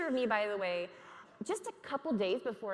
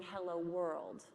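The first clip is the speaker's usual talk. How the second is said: slow, lower, even robot greeting; computer voice; 4 semitones lower, 6 dB quieter, slower than usual. Retold or imitated. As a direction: speak like a computer saying hello. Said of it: "It's my best computer voice".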